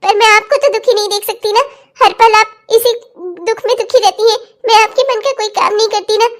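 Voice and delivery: halting, self-sacrificing tearful speech; crying. Acted. Daughter-in-law leaving six months after the wedding, crying. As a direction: sob through the farewell.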